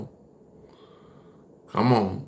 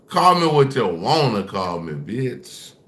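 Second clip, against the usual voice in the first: pushed out louder, defiant; louder defiant repeat. Real, not acted. Streamer repeating it louder to hateful chat. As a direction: throw it back at them harder.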